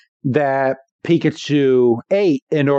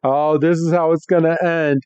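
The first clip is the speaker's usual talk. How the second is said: mock dying moan; imitated dying Meowth; 3 semitones higher than usual. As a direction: act out a hammed-up last lament. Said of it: "Meowth is dying on the ground".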